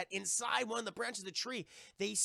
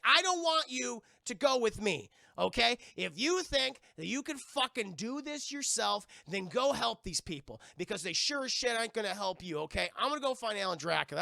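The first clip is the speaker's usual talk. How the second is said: firm, louder telling off; a touch of anger; 4 semitones higher, 4 dB louder than usual. Acted. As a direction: push him away sharply. M T snaps at Jesse.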